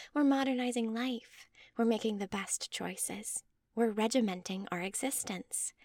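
lightly voiced mother reciting earnest slogans; measured zeal, lifting into a breathy finish; devoted believer mother. Mother giving her speech for Bill's approval, mildly zealous.

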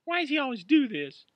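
high, loud tearful sob of a question; a hurt woman asking through tears; sobbing. Acted. Upset girlfriend sobbing to Roy after the fight. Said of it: "Amy sobbed".

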